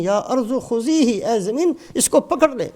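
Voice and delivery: retold stern order, stretched for weight; majestic wrath. Musa commands the earth to seize Qarun, in retold wrath. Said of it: "جلال میں فرماتے ہیں".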